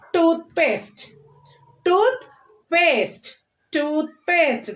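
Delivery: TOOTH in Toothpaste pitched high, paste falling away; stress on TOOTH. Shown as a demonstration. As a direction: say Toothpaste slowly, leaning on the first syllable, Tooth. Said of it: "Stress the first syllable".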